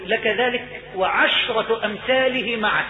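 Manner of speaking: measured, drawn-out pronouncement; solemn granting. Acted. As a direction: grant it slowly and gravely. رواية عطاء الرب للعبد.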